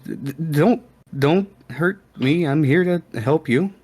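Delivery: high, stammering, scared; timid frog voice. Acted. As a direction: cower and plead. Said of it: "he kind of cowers away and says".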